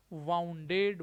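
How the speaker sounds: वाउंडेड said with "wow" vowel, the rejected form; teacher voices the mistake वाउंडेड as ow-vowel "wow-nded"; wrong pronunciation. Shown as a demonstration. Teacher showing students the wrong way to say वाउंडेड. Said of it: "वाउंडेड नहीं".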